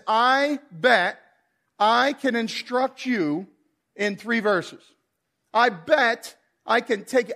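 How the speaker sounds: lightly voiced God, slow and confident; a gentle hint of a divine challenge; God's voice. God challenging the pastor, lightly voiced and slow. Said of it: "he says".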